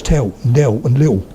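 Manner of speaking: "tell, del and lil" ending in a W sound; tongue off the ridge, "tell" as "tew"; final L as W. Shown as a demonstration. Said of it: "So it's a W".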